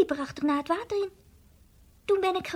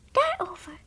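hushed whispered word. Acted. Bims whispering what Zoemp must know. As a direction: whisper it like a secret. Secret to tell.

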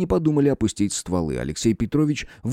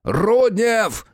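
higher, sharp bark across the dark; barked shout; 11 semitones higher, 3 dB louder than usual. A narrator's reading. Detective shouting for his partner in the dark, barking. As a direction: bark his name out loud. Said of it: "гаркнул".

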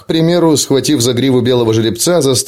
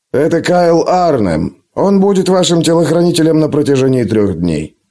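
lightly voiced tutor; 3 semitones higher than usual. Tutor introduces the bodyguard.

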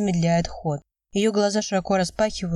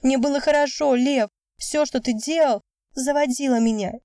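high, raised shout; 6 semitones higher than usual. A narrator's reading. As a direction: keep yelling it at him. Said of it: "Вика тоже срывается на крик". (крик на высоких нотах)

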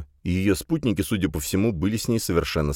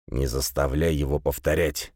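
grumbling; 6 semitones lower, 3 dB quieter than usual. A narrator's reading. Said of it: "проворчал полуночник".

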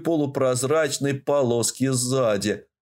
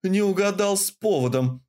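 growled; 7 semitones higher than usual. A narrator's reading. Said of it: "прорычала я".

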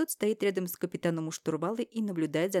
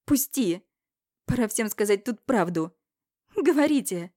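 higher, much louder shout; 4 semitones higher, 7 dB louder than usual. Acted. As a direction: yell at everyone. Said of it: "Кричу". (крик, выше и громче)

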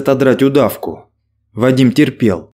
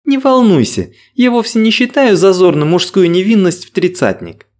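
put-on teasing young woman; 4 semitones higher than usual. Angelina teasing.

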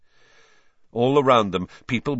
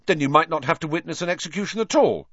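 stout; 8 semitones higher, faster than usual. A narrator's reading. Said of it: "said Ron stoutly".

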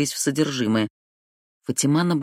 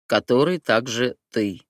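broken English; 2 semitones lower than usual. Acted. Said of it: "на корявом английском".

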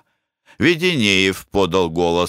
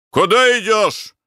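a higher, menacing demand; threatening shout; 13 semitones higher than usual. A narrator's reading. Attendant grabs the guest's arm and shouts menacingly. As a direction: bark the question to scare him. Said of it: "с угрожающим видом кричал".

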